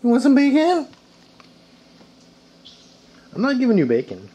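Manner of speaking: put-on very high, loud doggy baby talk; high pet talk. Owner offering the dog bacon, squeaky pet voice.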